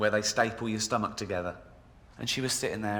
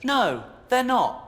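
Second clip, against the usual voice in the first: much higher, louder rant; loud comic outrage; ranting rebuttal; 9 semitones higher, 4 dB louder than usual. Real, not acted. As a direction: fire back in mock outrage.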